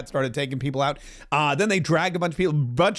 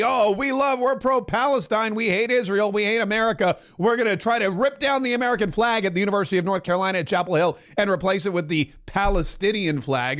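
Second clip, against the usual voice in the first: mocking protesters; 3 semitones higher than usual.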